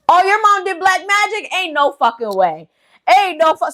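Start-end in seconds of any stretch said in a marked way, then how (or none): 0.1-1.5 much higher, stunned gasp of a question; mock shocked relative; hammed-up disbelief, high. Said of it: "Everybody's just looking like". 3.1-3.7 higher and louder, cut off mid-swear; rising mock outrage, bitten off; imitating an indignant relative, louder; mock outburst. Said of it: "Everybody's just looking like".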